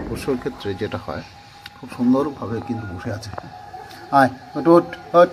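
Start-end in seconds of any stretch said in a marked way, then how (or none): 4.2-5.3 put-on high, loud baby talk to a pet; high coaxing pet voice. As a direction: coax the cat sweetly. Coaxing the cat to do tricks.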